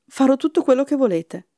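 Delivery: put-on a frightened boy eager to obey. A narrator's reading. Jack bargaining with the giantess, frightened. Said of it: "disse Jack spaventato".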